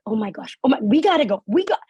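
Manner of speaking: flustered urgency. Retold or imitated. Daughter rushing to leave her chatting parents, flustered. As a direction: hurry them off, flustered.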